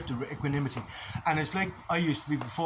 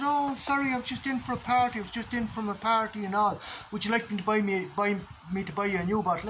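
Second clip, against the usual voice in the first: raised pitch, apologetic and sheepish; meek flatmate apology; 5 semitones higher than usual. Retold or imitated. Speaker imitating flatmate's sheepish apology, higher. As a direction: play the flatmate caught out, all sorry.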